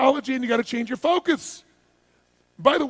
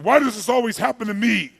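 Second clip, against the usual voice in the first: mock complaint; 7 dB louder than usual. Acts a self-pitying questioner.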